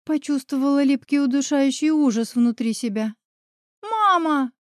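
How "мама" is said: higher, calling out with all her might; desperate cry. A narrator's reading. Daughter screaming for her mother as they part, with all her might. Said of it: "крикнула изо всех сил".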